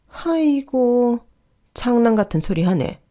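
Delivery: long, high exasperated wail, then scoffing; scornful dismissal. Acted. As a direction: draw out the first word high, then brush it off. 어머니가 아들 말을 비꼼. (길게 빼며 비꼬는 핀잔)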